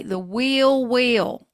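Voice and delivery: drawn-out Southern "wheel wheel"; Southern accent. Shown as a demonstration. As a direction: stretch WHEEL WHEEL slowly, Southern style. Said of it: "say it with a Southern accent".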